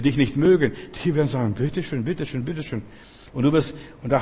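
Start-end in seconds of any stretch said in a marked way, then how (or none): 1.5-2.8 softer, submissive offering. Acted. Enemies hand over gifts.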